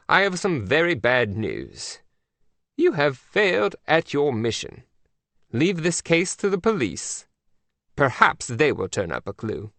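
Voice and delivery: a prim queen breaking bad news; Queen of England. The Queen scolds agent Mac by phone, prim.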